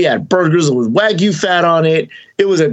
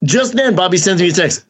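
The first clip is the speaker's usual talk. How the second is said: excited retake; 4 semitones higher than usual. Real, not acted. Retold punchline, restarted higher.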